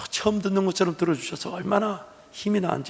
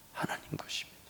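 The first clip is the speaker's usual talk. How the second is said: whisper; 20 dB quieter than usual. Acted. Repeated line, whispered take.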